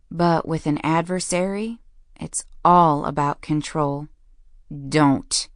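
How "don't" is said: growl. A narrator's reading. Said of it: "His voice was a growl".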